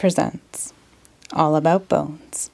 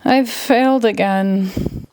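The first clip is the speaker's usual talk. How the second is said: crying; 3 semitones higher, slower than usual. Acted. Magician starts to cry.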